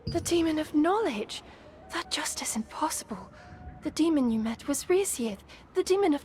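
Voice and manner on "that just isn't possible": whispered disbelief. Acted. Shocked disbelief at demon claim.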